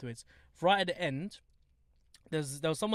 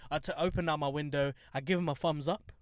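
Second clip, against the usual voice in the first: ordinary talk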